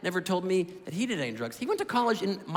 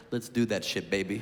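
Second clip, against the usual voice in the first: stoned dad; 12 semitones lower, 3 dB quieter than usual. Retold or imitated. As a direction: play the dad deep and lazy, half giggling. Stoned dad voiced in story.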